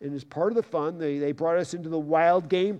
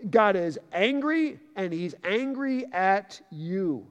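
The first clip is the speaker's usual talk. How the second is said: urgent wake-up call; 4 semitones higher, 4 dB louder than usual. Pretend. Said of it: "this is like".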